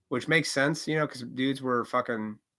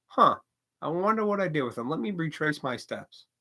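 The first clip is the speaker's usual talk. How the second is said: calm; 3 semitones higher than usual. Pretend. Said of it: "do you calmly".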